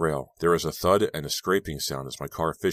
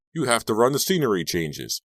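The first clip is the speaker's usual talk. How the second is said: shouting; 6 semitones higher, 5 dB louder than usual. A narrator's reading. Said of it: "Robbie shouted after me".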